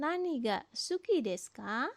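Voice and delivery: "ka" at the end rising as a question; rising question intonation. Shown as a demonstration. Japanese teacher models asking what someone likes, rising on "ka". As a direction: lift the pitch on the final "ka". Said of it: "intonasi naik ya".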